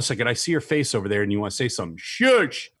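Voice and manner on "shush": a high, mock-stern shush; playful shush. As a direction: hush your friend teasingly. Hushing the co-host mid-prayer.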